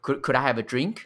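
drink rising at the end as a question; uptalk. Shown as a demonstration. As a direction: lift the pitch up on drink. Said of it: "drink是上扬嘛".

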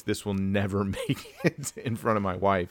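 laughing through the words; amused, a laugh breaking mid-sentence. Real, not acted. Joking, laugh heard mid-line.

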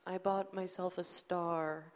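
slow, mopey Eeyore-ish murmur; a light, slow take on a glum donkey; hint of a sad sack, drawn out; gloomy Eeyore. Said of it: "he's kinda like Eeyore".

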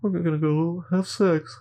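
high, eager mock interns. Interns answering the doctor, mock eager and high. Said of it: "They're like".

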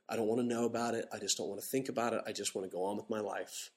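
soft, trailing-off mock indifference; complacent. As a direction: shrug it off quietly as someone who won't engage. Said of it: "Complacency. A lot of folks that are just kind of".

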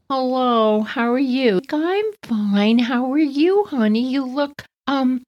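lightly voiced mom, sugary doubt; polite mom voice. Julie's mom politely questioning sweater.

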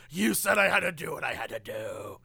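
strained, mock-anguished protest; exasperated husband act. Husband answers his crying wife, strained mock-anguished protest. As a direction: protest in a put-on movie-hero voice.

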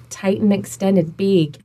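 "big" with a tight, drawn A, like "baig". Shown as a demonstration. Coach explaining oral posture, "big" with tight extended A. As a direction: say "big" as Minnesotan bag, jaw tight. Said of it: "vowel gets raised".

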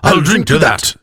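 high cry in two character voices; joint drunken toast. A narrator's reading. Elf and woman toasting simultaneously, high tipsy cry. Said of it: "they decried simultaneously".

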